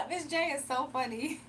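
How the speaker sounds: laughing through the words; real laughter at a chat comment. Real, not acted. Streamer laughing at a viewer's joke, laughing.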